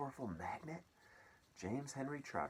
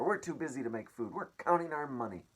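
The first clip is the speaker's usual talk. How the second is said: yelling aunts; 6 semitones higher, 6 dB louder than usual. Acted. Aunts yell at James.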